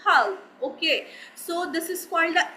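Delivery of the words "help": slow "help" with a twist of the tongue; English-style pronunciation. Shown as a demonstration. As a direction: model "help" slowly in native English style. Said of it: "after that you speak it like".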